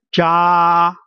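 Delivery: Jia drawn out on one level pitch; long, even, unbending Jia; first tone. Shown as a demonstration. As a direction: hold Jia flat from beginning to end. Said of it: "from the be-, beginning to the end".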